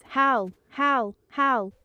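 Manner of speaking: loud, high calls like a dingo; dingo howl. Shown as a demonstration. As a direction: call out each word as a howl. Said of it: "The dingo says".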